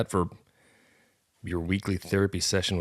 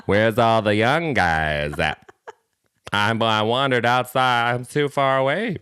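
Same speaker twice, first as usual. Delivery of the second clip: tipsy lady voice; 2 semitones higher, 4 dB louder, slower than usual. Acted. Mocking a lost lady hiker.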